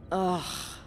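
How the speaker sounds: short exasperated "ugh"; disgusted groan. Acted. Venting to a coworker about Linda, disgusted groan.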